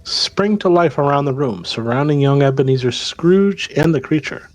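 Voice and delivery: measured storytelling read; game master narration. Acted. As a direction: set the scene for the players. Game master tells the scene.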